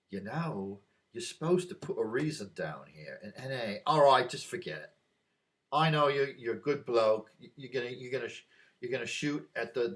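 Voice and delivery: lightly put-on English accent, village constable; an amateur's English accent, letting a local off the paperwork. Local constable waving through a shotgun form, lightly mimicked English accent. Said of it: "my English accent is bloody bad".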